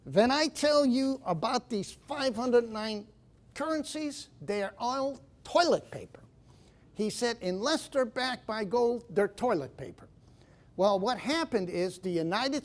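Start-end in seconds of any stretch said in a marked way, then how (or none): 0.0-6.2 mimicking an Austrian economist's heavy accent; thick Austrian accent. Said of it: "he spoke with this Austrian thick accent". 7.4-10.1 put-on thick Austrian accent. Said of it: "he spoke with this Austrian thick accent".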